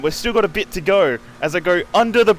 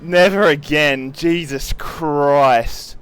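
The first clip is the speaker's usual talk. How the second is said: exhausted relief; 3 dB louder, much slower than usual. Real, not acted. Exhausted after twelve hours.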